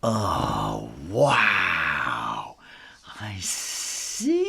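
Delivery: breathy wonder, hushed; a hushed, wondering kitten; awed whisper. Acted. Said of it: "Ginger marvels".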